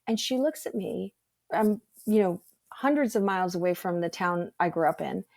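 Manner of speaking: normal talking voice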